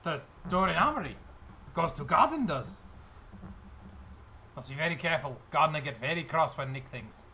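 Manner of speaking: put-on accented goblin guide. Goblin guide explaining the garden door, cautious accented voice. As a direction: warn in broken, accented English. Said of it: "And he says, uh".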